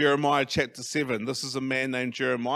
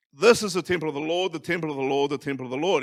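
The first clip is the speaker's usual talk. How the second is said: prophet's warning called out, starting louder and quick, then easing off; yelling it; 4 dB louder, faster than usual. Shown as a demonstration. Pastor voicing Jeremiah's repeated temple cry, mild demo yell. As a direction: proclaim it like a crier at the temple gate. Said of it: "He's yelling it".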